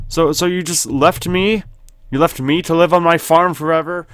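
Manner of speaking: high-pitched wounded pleading; hammed-up abandonment; mock hurt. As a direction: whine like you've been abandoned. Acts abandoned after reading farewell note.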